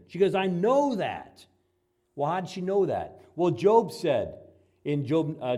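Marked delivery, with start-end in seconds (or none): 0.3-1.4 pushy Martha. Acted. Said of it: "she got pretty pushy with Jesus".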